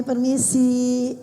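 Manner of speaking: "Permisi" drawn out slowly and politely. Shown as a demonstration. Teacher showing a child how to say "Permisi", slow and polite. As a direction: stretch "Permisi" slowly, gently, as taught to a child. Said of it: "Begini ya nak ya. Ditaruh tangannya begini".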